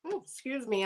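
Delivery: coughing, throat catching; clearing a tickly throat; choking. Real, not acted. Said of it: "I'm just choking a little".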